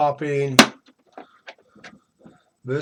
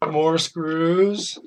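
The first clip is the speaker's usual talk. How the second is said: resigned guess. Real, not acted. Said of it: "let me guess".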